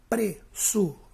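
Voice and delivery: "pressurosa" in detached beats, pre-ssu-ro-za; syllable by syllable. Shown as a demonstration. Teacher showing the tonic syllable, "pressurosa" split into beats. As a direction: break up "pressurosa" with a gap after each syllable. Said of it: "Sílaba tônica também é o ró".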